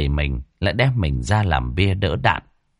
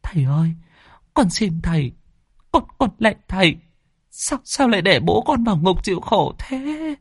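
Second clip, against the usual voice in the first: much higher, pleading plea; begging; 11 semitones higher than usual. Acted. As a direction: beg the master for mercy. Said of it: "van xin".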